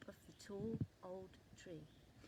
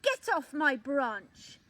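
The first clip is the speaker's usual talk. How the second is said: shout; 4 semitones higher, 11 dB louder than usual. A narrator's reading. Top Leaf shouting at the squirrel, loud and angry. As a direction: shout him off the branch. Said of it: "he shouted at a squirrel".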